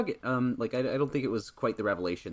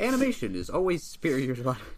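laughing; 6 semitones higher, 6 dB louder than usual. Real, not acted. Mock claim while laughing.

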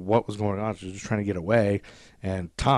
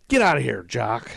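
retold angry dismissal; 3 semitones higher, 3 dB louder than usual. Arnie sending the official away, angry. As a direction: shoo him off, mock angry.

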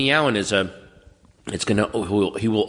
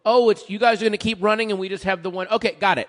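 mock band voice; 6 semitones higher than usual. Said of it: "for the bands to go".

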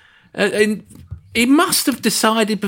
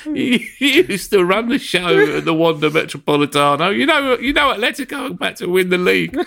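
imagined Parejo; 3 semitones higher than usual. Retold or imitated. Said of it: "I imagine Parejo was going".

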